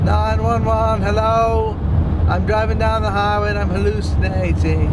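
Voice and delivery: mock 911 call.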